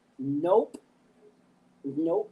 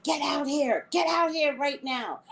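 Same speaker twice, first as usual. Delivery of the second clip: mock commanding man; 8 semitones higher than usual. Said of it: "And he was like".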